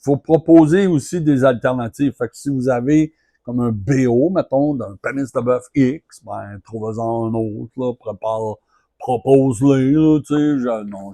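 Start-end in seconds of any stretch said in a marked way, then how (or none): 3.4-10.6 french street slang. Retold or imitated. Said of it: "je vais arrêter d'imiter les jeunes".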